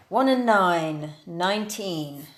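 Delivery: slow, drawn-out number calling; bingo caller. Acted. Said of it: "let's see if we can do some proper bingo calling".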